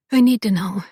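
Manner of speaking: firm and earnest, no play; serious. Acted. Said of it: "looking at him seriously".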